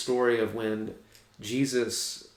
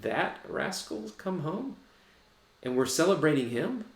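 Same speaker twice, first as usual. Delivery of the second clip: mock outrage; 6 semitones higher than usual. Older brother outraged at news.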